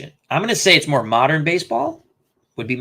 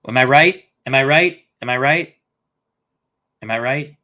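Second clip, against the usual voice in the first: fading repeats; 4 dB louder than usual. Real, not acted. Asking chat if his answer is right, loud then fading. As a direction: call it out, then let it fade away.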